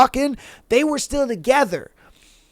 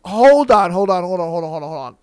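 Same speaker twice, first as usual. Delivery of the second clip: fading hold-on patter; 4 semitones lower, faster than usual. Retold or imitated. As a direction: start firm, then let the repeats tumble away. Retold attempt to halt the argument.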